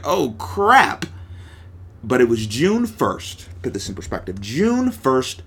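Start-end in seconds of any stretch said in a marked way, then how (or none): 0.0-1.1 high, sudden retold "oh crap"; mock dismay. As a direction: play back the moment of realising it's bad. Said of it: "And I was like".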